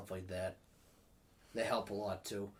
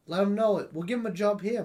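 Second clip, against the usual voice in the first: excited; 10 semitones higher, 10 dB louder than usual. Retold or imitated. Boss quoted offering a job.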